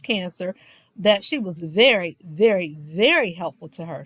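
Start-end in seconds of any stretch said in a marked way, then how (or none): 1.6-4.0 each "very" punched separately, falling in pitch; emphatic. Retold or imitated. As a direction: lean hard on "very", "very", "very" with small breaks between. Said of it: "She said that emphatically".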